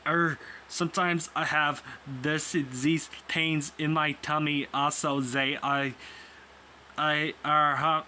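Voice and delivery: halting, attempted German accent; amateur German accent, lightly done. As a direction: stumble through it in a mild German accent. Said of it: "do my best at this German accent".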